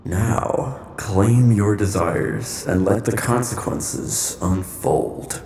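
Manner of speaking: slow, menacing villain; sinister host voice. Acted. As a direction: draw out the command like a dark host. Villain host issues final command.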